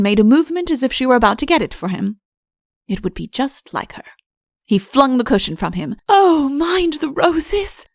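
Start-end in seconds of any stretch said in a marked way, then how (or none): 6.1-7.8 high, slow alarmed cry. A narrator's reading. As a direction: call out in a high, drawn-out alarm. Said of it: "cried Belvane".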